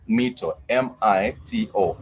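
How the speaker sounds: Mito, then each letter M I T O named apart; spelled out. Shown as a demonstration. Teacher spells the plural mito for students. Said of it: "spelling it out".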